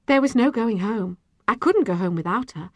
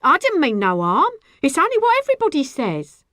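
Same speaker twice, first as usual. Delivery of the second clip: high, loud, flustered excuse; mildly panicked self-defence; frightened protest; 8 semitones higher, 6 dB louder than usual. A narrator's reading. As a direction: plead that you meant nothing. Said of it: "Her face was red and frightened".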